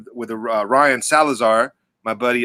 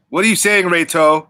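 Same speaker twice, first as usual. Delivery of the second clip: raised, higher-pitched question; pitched up to get an answer; insistent asking; 4 semitones higher, 4 dB louder than usual. Real, not acted. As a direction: call the question over to a friend. Repeats the question to get Reto's answer.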